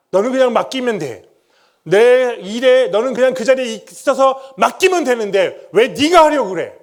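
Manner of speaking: God thundering a rebuke; stern divine rebuke. Acted. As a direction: call his name down from heaven like a stern father. God's voice rebuking him.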